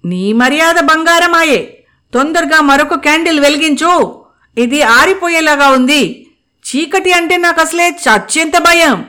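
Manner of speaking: nervous urgency about the dark; fearful. Acted. Anu begging for another candle, scared high voice. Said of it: "అంది భయంగా".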